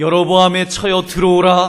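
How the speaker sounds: thunderous booming voice. Preacher dramatizing God's rebuke from scripture, voice like thunder. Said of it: "저는 이 목소리가 천둥처럼 들립니다".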